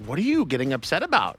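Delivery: lightly voiced puzzled local; a hint of a baffled bystander; imitating locals. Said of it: "they're like".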